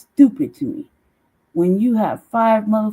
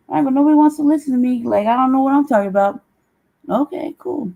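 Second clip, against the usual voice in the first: higher, louder and fast sarcastic rant; mock offended, rushing it out; sarcastic complaint; 6 semitones higher, 4 dB louder, faster than usual. Real, not acted. Complains nobody listens.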